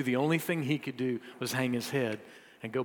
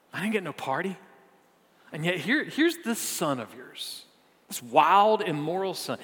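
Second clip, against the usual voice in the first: put-on indignant older son. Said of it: "He sounds super happy that his brother's home".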